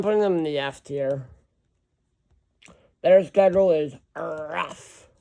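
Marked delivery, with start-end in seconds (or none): 3.0-5.1 slow, drawn-out and a bit louder; accidentally weird slow delivery; odd slow drawl. Real, not acted. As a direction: stretch the words out oddly. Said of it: "I don't know why I said it like that".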